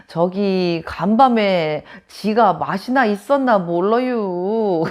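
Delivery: very slow Chungcheong drawl; Chungcheong dialect. Retold or imitated. Chungcheong woman after one night, in a slow Chungcheong drawl. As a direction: stretch it out lazily in Chungcheong dialect. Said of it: "충청도 여자분들은요. 이렇게 말한대요".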